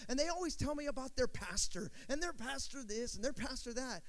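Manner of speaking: a light voicing of the veteran talking about the eager Latin guys; imitating old man. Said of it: "He's all".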